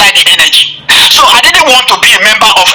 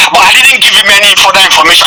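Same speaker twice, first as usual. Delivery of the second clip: ordinary delivery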